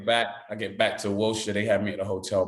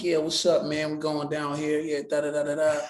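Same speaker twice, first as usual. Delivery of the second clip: lightly voiced street character, pitched up; Frank; 4 semitones higher than usual. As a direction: slip lightly into an American character's voice. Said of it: "I'm talking like Frank".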